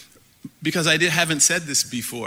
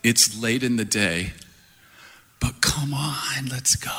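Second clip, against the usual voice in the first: soft inner voice; 3 semitones lower than usual. Shown as a demonstration. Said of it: "This phrase comes to my mind".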